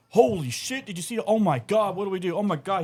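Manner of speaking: high, rushed panic of a freaked-out father-in-law; panicked father-in-law. Retold or imitated. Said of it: "he's freaking out".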